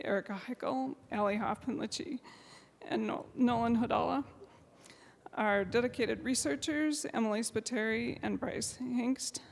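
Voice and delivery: quiet, tearful thank-yous; holding back tears while thanking her staff; emotional. Real, not acted. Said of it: "I'm emotional".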